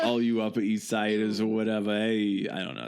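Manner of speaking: put-on hammy New York accent; tossed-off New York tough-guy accent; fake New York accent. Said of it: "That's my fake New York accent".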